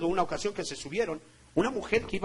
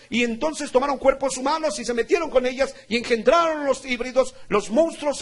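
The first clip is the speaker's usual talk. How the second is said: high, raised, driving sermon voice; forceful preaching; 6 semitones higher, 6 dB louder than usual. Real, not acted. Preacher telling church of fallen angels at Mount Hermon, forceful preaching. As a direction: preach it out with urgency.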